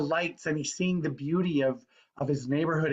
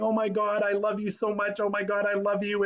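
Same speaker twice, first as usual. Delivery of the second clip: put-on hug the words like his kids; joyful; 8 semitones higher than usual. George Bailey to his kids, elated. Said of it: "he's saying".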